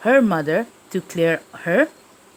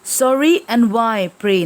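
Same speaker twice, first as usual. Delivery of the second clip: raised, indignant why pray; haughty question; 2 semitones higher, 3 dB louder than usual. Acted. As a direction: ask it with lofty disdain. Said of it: "it's her style".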